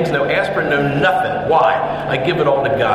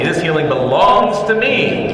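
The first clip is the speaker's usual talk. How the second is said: leading a declaration. Shown as a demonstration. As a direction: proclaim each phrase as a call. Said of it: "Say it with me".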